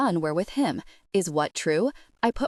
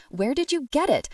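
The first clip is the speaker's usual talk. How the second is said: barking back; 7 semitones higher than usual. A narrator's reading. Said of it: "I barked back".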